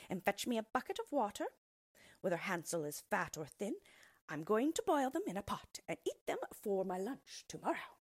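lightly voiced threatening witch. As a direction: gloat like a hungry witch.

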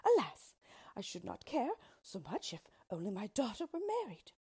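high, loud "alas", then easing; theatrical storybook lament; lamenting queen. Acted.

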